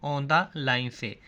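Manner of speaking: On the line stretched out slowly, each word drawn apart; slow emphatic answer. Shown as a demonstration. Teacher spelling out the answer slowly for students. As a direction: drag the words out so students catch them. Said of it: "वो कहाँ से शुरू होगा?".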